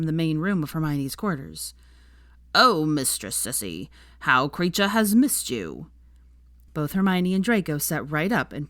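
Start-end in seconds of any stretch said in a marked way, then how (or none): 2.5-5.9 slow, fawning little elf voice; croaky house elf. Acted. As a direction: gush over his mistress like an adoring servant. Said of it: "his croaky voice".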